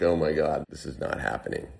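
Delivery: panicked, dropping to a hush; sinking dread, voice falling away; freaking out. Retold or imitated. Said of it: "I'm freaking out".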